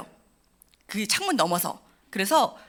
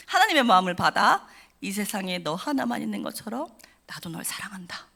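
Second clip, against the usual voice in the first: tender pastor's blessing. Retold or imitated. Pastor repeating his blessing to her, tender whisper. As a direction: murmur it lovingly, ending in a whisper. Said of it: "그 말씀만 반복하셨어요".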